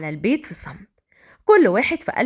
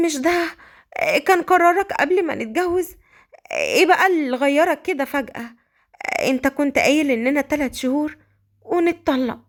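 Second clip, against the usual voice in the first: hoarse with emotion, pitched up; wounded questioning through a tight throat; Malika, choked voice; 3 semitones higher than usual. Acted. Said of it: "مليكة بصوت مبحوح".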